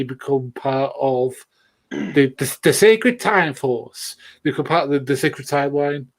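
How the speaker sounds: slow Southern American drawl on Sacred Timeline; Southern American accent. Acted. Podcaster mock-announcing the Sacred Timeline, Southern American accent. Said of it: "I will stop it with the American, Southern American accent".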